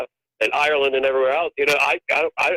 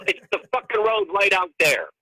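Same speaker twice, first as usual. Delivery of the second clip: exasperated retort; 5 semitones higher than usual. Retold or imitated. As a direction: spell it out to someone who should know. Retold argument with a local.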